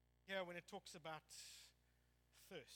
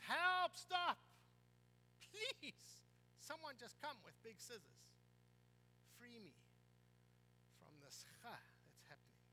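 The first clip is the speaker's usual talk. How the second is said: pleading shout fading. Retold or imitated. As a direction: start shouting, end almost begging under breath. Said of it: "we are shouting".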